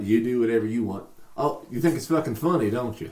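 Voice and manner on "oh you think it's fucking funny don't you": Southern accent. Shown as a demonstration. Showing a friend how the Southern lady said it, Southern accent. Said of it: "I'll do southern".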